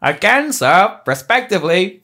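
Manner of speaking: hammed-up insubordinate retort; angry refusal. Retired pilot rebuffing his commander, angry refusal.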